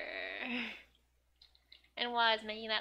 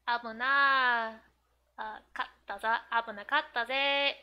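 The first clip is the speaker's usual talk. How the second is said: anime line; 7 dB louder than usual. Retold or imitated. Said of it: "let's see".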